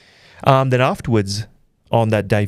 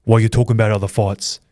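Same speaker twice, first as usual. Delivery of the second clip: mock fighter's rant; 3 dB louder than usual. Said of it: "He goes".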